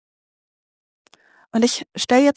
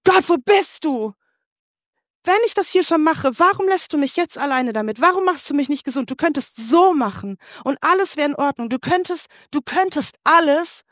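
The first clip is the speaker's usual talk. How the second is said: higher, pleading cry to God; 5 semitones higher than usual. Retold or imitated. Jenny in the woods crying out to God, higher and pleading. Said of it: "hab geheult und hab einfach nur wirklich geschrien".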